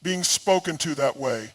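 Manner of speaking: understated, kindly firmness; firm but kind. Acted. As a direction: state it evenly, without heat. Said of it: "she states it firmly but kindly".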